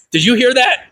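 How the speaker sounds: high-pitched incredulous question; stunned, high "can you believe it" voice; amazed disbelief. Retold or imitated. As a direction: ask it astonished, voice leaping up. Retells amazed question to siblings.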